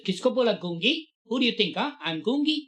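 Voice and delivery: indignant retort. Retold or imitated. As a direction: snap back, insulted. Cousin angrily retorts.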